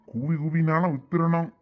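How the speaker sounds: usual speaking voice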